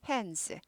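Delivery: "hands" with the D swallowed, like 핸스; nearly silent D in "hands"; D barely heard. Shown as a demonstration. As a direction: say "hands" with hardly any D. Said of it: "잘 안 들려 정도로 하세요".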